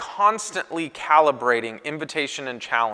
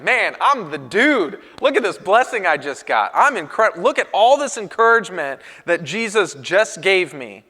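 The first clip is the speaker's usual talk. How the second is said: cocky excitement; 4 semitones higher, 4 dB louder than usual. Retold or imitated. Peter boasting to the other disciples, proud and excited. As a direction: crow about the blessing like the big shot. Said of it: "Peter's like".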